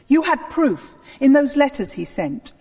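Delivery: heated insistence. Acted. Anne presses Henry about Wolsey's letters, heated. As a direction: push him hard with the evidence.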